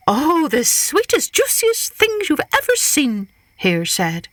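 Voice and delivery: high, sly teasing hare; high tempting Hare voice. Acted. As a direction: tempt him sweetly as Hare.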